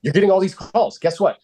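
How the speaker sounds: sarcastic retort. Retold or imitated. Mocking a complaining seller.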